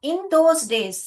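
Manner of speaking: in those days, slowed and stressed on those. Shown as a demonstration. Teacher reading to class, slow and stressed. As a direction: lean slowly on those in those days. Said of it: "in those days यानी यहाँ पर क्यों".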